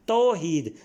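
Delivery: "توحید" as tau-heed, two clear syllables; careful pronunciation. Shown as a demonstration. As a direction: say "توحید" with au, then a long ee. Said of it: "تے پر زبر آئے گی".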